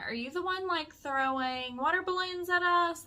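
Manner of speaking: high-pitched asking up; retold questioning. Friend asks the balcony man about water balloons, retold high question. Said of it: "my friend does ask him".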